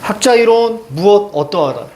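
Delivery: "학자 이론, 무엇, 어떠하다" in separate chunks; reading demonstration. Shown as a demonstration. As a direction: pause after "이론" and "무엇", falling on "어떠하다". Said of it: "이렇게 읽었으면 퍼펙트하게 읽은 거예요".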